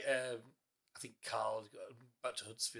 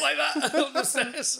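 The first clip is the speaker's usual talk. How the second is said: laughing excitement; 13 semitones higher, 10 dB louder, slower than usual. Real, not acted. Demonstrating running on all fours.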